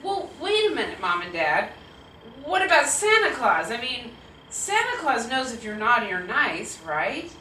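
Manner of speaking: put-on a touch of kid's urgent protest; mildly pleading little-kid argument; lightly voiced questioning child. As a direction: challenge Mom and Dad with a child's logic. Child self challenges parents.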